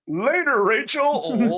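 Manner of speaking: jaunty Transylvanian goodbye to Rachel; Transylvanian accent. Retold or imitated. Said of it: "He was like".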